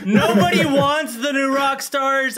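loud laughing outburst; laughing shout. Real, not acted. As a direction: laugh through the words loudly.

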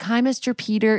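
a hint of a small girl's voice; cute little girl. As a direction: imitate a cute kid saying hello. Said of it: "It's, like, very cute".

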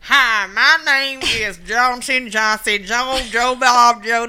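Southern racist caller, slowed and hammed up; mock racist robocall. Mocking a racist robocall to voters, hammy Southern drawl. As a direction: ham up a redneck robocall voice. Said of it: "what are those calls like".

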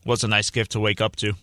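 talking through a bite of bagel; words around a mouthful of bagel; mouth full. Real, not acted. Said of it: "You're eating already?".

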